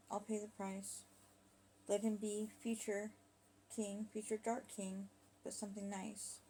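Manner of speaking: halting prayer with long pauses; measured confession in prayer; husband's recited prayer. Acted. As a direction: pray haltingly, phrase by phrase.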